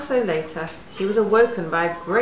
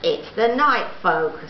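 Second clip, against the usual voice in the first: excited; 3 semitones higher, 6 dB louder than usual. Acted. Dog speaks, loud, excited.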